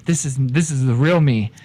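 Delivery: low Irish con man; lightly Irish con man ranting at the barkeep; Irish accent. Acted. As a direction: swagger through it in an Irish brogue. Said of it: "You go right back to your Irish accent".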